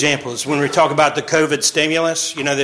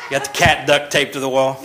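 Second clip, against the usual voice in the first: laughing. Real, not acted. Laughing joke about cat.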